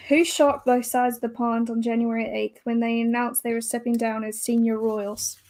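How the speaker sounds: put-on mixed UK and Aussie accent; loosely Australian quiz reading. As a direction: read it out in an amateur Australian accent. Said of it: "I can do Australian".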